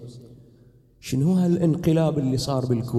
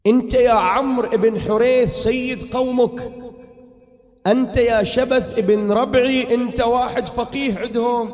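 impassioned preaching; 7 semitones higher, 4 dB louder than usual. Acted. Preacher crying out to the congregation, full force. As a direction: rouse the mourners with full force.

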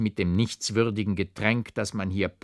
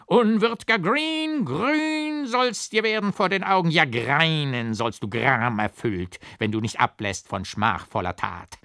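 grim scolding; 7 semitones higher, 4 dB louder than usual. A narrator's reading. Hewson charges at Doctor Green, grim stagey scolding. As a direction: thunder at him like a wrathful tragic king. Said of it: "schoss Hewson grimmig auf den Doktor los und schalt".

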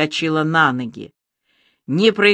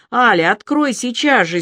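angry; 6 semitones higher than usual. A narrator's reading. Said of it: "сердито сказал он".

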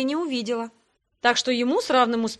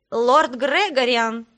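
slow, louder creaky creature voice; 6 dB louder, much slower than usual. A narrator's reading. Hunched green servant bows to his lord, creaky greeting. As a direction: creak out a drawn-out, loud greeting. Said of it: "проскрипело существо и поклонилось".

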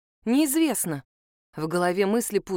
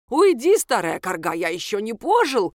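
louder, panicky shout; frightened drunk yelling; 4 dB louder than usual. Acted. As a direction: drive her off in drunken fright. Drunk shoos away the witch.

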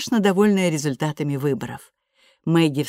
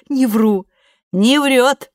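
excited; 7 semitones higher, 7 dB louder, much slower than usual. A narrator's reading. Excited back-and-forth.

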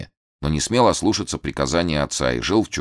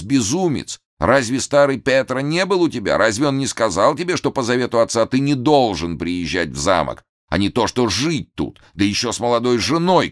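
put-on an old man crying out in alarm; hammed-up frantic yell; trembling shout; 7 semitones higher than usual. A narrator's reading. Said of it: "кричал весь, трясясь".

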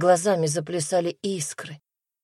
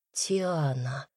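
soft first call; 3 semitones lower, 7 dB quieter than usual. A narrator's reading. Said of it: "повторил, словно молитву".

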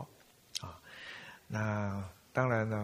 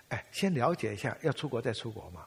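ordinary delivery

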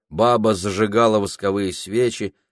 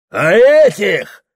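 slow, high, roaring yell; bellow; 12 semitones higher, 10 dB louder, slower than usual. A narrator's reading. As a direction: roar and wave the rag. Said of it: "заорал он".

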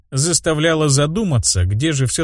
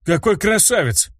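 высоко и восторженно; невольно ахнуть от восторга; восхищённый возглас; 7 semitones higher than usual. A narrator's reading. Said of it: "невольно воскликнул я". (герой восхищается медведем)

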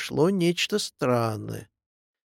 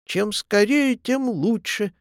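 pitched up, with swaggering nonchalance; cheeky, brash; 6 semitones higher than usual. A narrator's reading. Echo answers its own hill, brash and cheeky. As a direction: toss it off brashly, higher. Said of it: "чрезвычайно развязно".

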